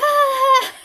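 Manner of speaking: high laughing "ah"; mock cry through a laugh; imitated high cry. Pulled from under the car, high mock cry. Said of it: "And then I'm like".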